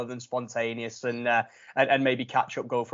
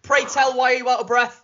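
mock formal; 10 semitones higher, 6 dB louder than usual. Real, not acted. Mock formal question to a friend.

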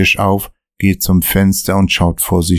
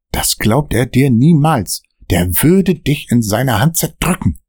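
a touch of anger; 6 semitones higher than usual. Acted. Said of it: "mit wütender Stimme".

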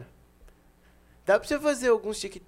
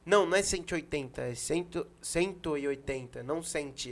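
mock annoyed dad; 6 semitones lower, 9 dB quieter than usual. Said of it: "Ele ficou puto".

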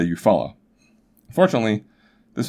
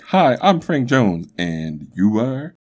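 mock old-timey introduction; 3 semitones higher, much slower than usual.

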